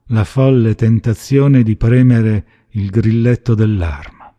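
ordinary delivery

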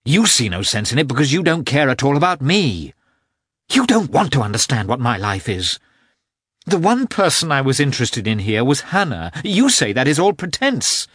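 rising into a high, loud accusation; building from hurt to high accusing outburst; bitter reproach. A narrator's reading. Anna's rising reproach in quarrel.

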